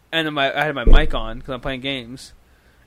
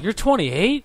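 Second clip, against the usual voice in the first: retold surprise; 7 semitones higher, slower than usual. Retold surprise at coworker's age.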